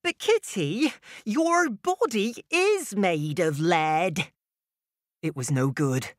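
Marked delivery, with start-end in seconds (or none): 0.0-4.3 deadpan unicorn. Acted.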